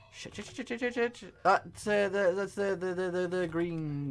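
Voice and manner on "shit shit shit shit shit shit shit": soft rapid muttered swearing; whispered panic. Real, not acted. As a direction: swear under your breath in panic. Panicked swearing under breath.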